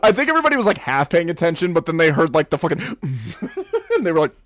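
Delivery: high, loud laughing chatter; laughing hard. Real, not acted. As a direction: talk through fits of laughter. GM laughing at table reaction.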